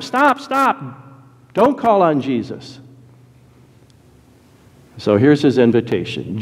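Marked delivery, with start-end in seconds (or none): 0.0-2.8 high-pitched, urgent mock objection; trying to stop him. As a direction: imitate a crowd cutting someone off. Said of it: "They're trying to stop him".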